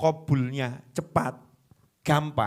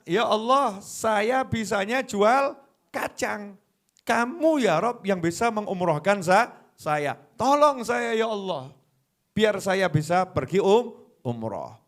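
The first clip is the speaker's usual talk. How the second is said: earnest plea; 4 semitones higher than usual. Acted. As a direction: plead humbly as a poor peanut seller. Peanut seller prays for umroh. (penjual kacang memohon kepada Allah dengan sungguh-sungguh)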